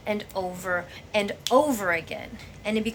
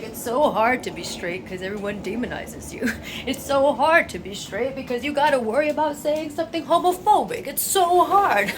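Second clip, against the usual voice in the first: mocking whine, pitched high and louder; mock whiny straight person; 4 semitones higher, 4 dB louder than usual. Mocking a straight person complaining to a queer friend, whiny. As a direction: sneer as a self-pitying straight person. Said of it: "and be like".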